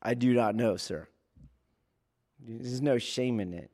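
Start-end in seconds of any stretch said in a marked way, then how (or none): 0.0-1.1 calm admission. Shown as a demonstration. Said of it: "it's like".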